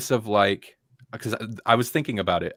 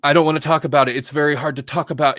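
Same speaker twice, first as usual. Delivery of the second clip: hammed-up fake teary line, a bit louder; mock teary; 3 semitones higher, 5 dB louder, faster than usual. Mocking the actor's forced teary scene, a bit louder. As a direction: parody a forced, unnatural sad delivery. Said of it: "he's got the teary-eyed, but he's like".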